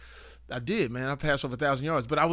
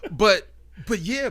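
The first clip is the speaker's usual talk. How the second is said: laughing; 7 semitones higher, 12 dB louder than usual. Real, not acted. Laughing brag about throwing.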